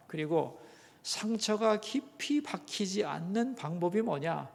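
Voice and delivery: ordinary talk, nothing marked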